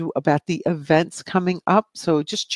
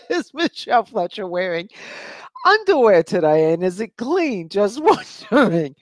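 amused reading; 4 semitones higher than usual. Real, not acted. Reads cheeky question while giggling.

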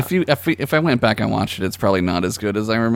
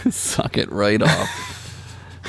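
laughing; 2 semitones lower, 4 dB quieter, much slower than usual. Real, not acted. Laughing repeat of co-host's line.

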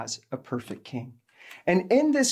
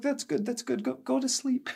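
softer, gently dismissive; soothing hush; 7 semitones higher, 6 dB quieter than usual. Retold or imitated. Elderly woman quieting a crying passenger, soft and soothing. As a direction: hush them back to sleep. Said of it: "she's like".

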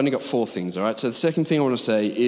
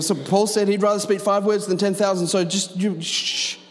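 higher-pitched put-on voice, ending in shh; mock hushing objector; 6 semitones higher than usual. Church member misquoting Paul to silence tongues, mock high-pitched hushing. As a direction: imitate someone hushing people with a verse.

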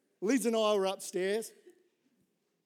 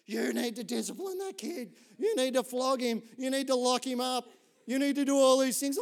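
mortified mum; 5 semitones higher, 4 dB louder than usual. Retold or imitated. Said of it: "she's like".

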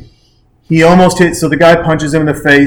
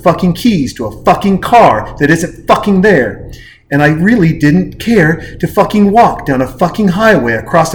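mock furious rant. Steve Martin reenacted demanding a car, mounting fury. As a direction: hammer every swear word.

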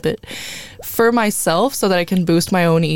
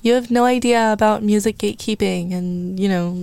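put-on valley girl. Shown as a demonstration. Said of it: "talk like a valley girl".

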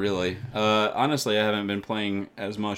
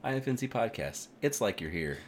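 announcer voice; 4 semitones higher, 3 dB quieter than usual. Pretend. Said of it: "Comedy Central would have done".

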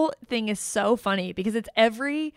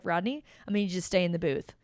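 quick, easy retold instruction; calm, friendly; 2 semitones lower, 3 dB quieter, faster than usual. Imitating the hero to Rodney like best buds, calm. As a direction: tell a buddy without any alarm. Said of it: "it's still calm".

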